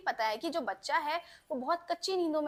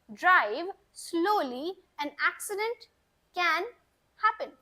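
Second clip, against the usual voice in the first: very slow, louder; slow model sentence; 2 semitones higher, 5 dB louder, much slower than usual. Shown as a demonstration. Teacher modeling the warning very slowly and louder. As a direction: pronounce every word clearly and slowly. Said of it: "अगर मैंने आपको बोला".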